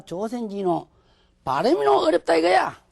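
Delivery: imitating a Japanese speaker. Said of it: "그래서 일본 사람들이 하".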